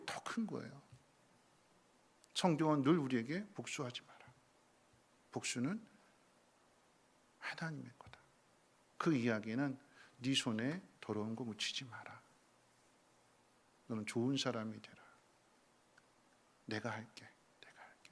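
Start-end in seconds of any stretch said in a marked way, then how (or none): 3.5-15.0 gentle counsel. Acted. Scripture voiced gently. 16.7-18.1 soft, unvoiced reassuring whisper; whispered promise. God's gentle promise, whispered.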